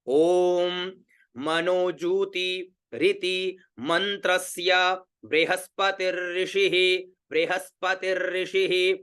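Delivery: slow, measured Vedic chant; teacher chanting the viniyoga for students to repeat; slow Sanskrit recitation. Shown as a demonstration. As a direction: recite the whole viniyoga slowly and evenly. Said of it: "ये इसका शुद्ध उच्चारण हो गया".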